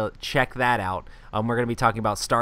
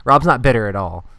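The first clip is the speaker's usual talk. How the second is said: louder, pointed repeat for effect; sarcastic teasing; 6 dB louder than usual. Real, not acted. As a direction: rub in the joke at your co-host.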